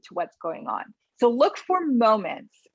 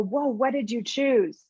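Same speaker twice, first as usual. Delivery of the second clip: curious whoa; slower than usual. Shown as a demonstration. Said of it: "No, you go".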